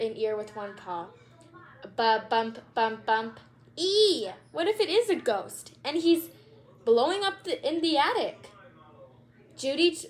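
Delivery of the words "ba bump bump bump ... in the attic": put-on frightened child. Judy scared of noises.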